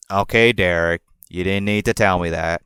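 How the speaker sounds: a low, unimpressed redneck reply; Tommy's redneck accent. Retold or imitated. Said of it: "I'm gonna do it in a redneck accent".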